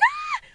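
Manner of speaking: short high-pitched scream; reenacted shriek of fright. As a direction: let out a sudden high yelp. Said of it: "So I'm just screaming".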